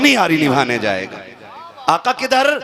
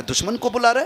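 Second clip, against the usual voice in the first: angry father; 10 semitones higher than usual. Acted. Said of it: "बाप गुस्से में आ गया".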